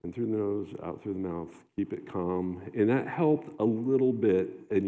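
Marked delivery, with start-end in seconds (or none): 0.0-2.6 soft self-coaching. Shown as a demonstration. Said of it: "just doing that".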